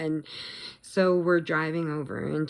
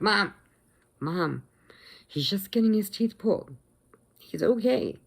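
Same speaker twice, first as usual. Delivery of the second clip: raised voice, reasoning with Mom; imitating daughter's reassurance; 5 semitones higher than usual. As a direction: talk a panicking mother down. Daughter reassures her panicking mother.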